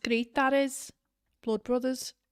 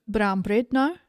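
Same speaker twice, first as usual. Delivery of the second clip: put-on copying a South African accent, louder; 3 semitones lower, 5 dB louder than usual. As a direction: echo it back in mock South African. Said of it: "South African".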